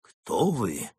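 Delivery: mildly dazed question; stunned mumble. Acted. Stunned Mole to his rescuer, mumbled. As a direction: ask it haltingly, amazed. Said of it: "промямлил поражённый Крот".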